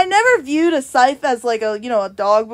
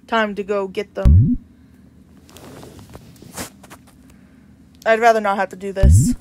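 lightly voiced, slightly lower solemn reaper; a calm grim reaper explaining the situation; reaper NPC voice; 5 semitones lower than usual.

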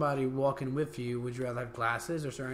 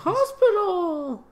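high drawn-out yell; mock yell; 9 dB louder, much slower than usual. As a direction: bellow it like a crazed patient. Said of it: "he's gonna yell".

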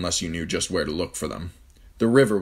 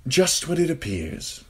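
smug; 10 semitones higher, slower than usual. A narrator's reading. Littlefinger smug.

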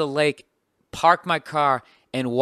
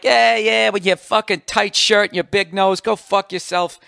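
loud, raised retold retort; angry comeback; 6 semitones higher, 4 dB louder than usual. Comic retells yelling at the heckler, loud and angry. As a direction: snap back at the guy, hammed up. His own comeback in the fight.

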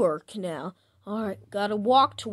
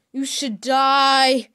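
1 slow angry curse; 2 semitones higher, 6 dB louder, much slower than usual. Acted. Accusing Norman Bates.

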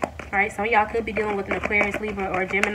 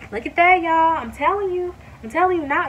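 high, loud burst of delight; can't contain her joy at the cards; excited squeal of praise; thrilled; 9 semitones higher, 6 dB louder than usual. Real, not acted.

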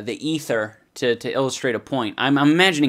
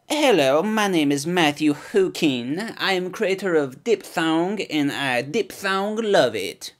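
mock quote voice; 3 semitones higher than usual. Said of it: "Here, I'll make a quote".

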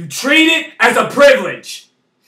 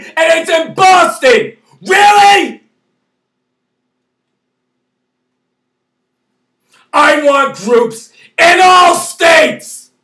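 angry shouting; 3 semitones higher than usual. Real, not acted. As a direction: shout at them in real frustration. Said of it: "I'm sorry for being so angry".

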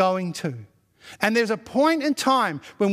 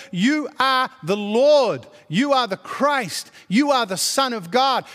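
rising preacher's cadence, punching each "you are"; full-force preaching. Acted. Pastor proclaiming Christ's power to the congregation, full force. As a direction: preach it like a crescendo.

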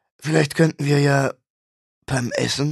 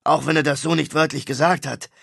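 ranting rock star; 5 semitones higher than usual. Acted. Star complaining to his brother about slander, aggrieved rant. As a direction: vent about the lies in the press. Mosch rants about the news.

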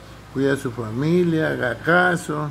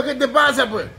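higher, louder mock challenge, with a laugh; mock angry wife; 9 semitones higher, 4 dB louder than usual.

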